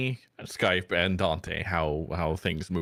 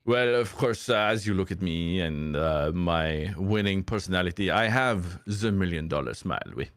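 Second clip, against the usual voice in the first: mock French accent. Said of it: "mangling ... a French accent".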